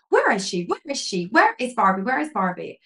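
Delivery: insistent retold calling out; imitated angry demand. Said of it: "Like, really angry".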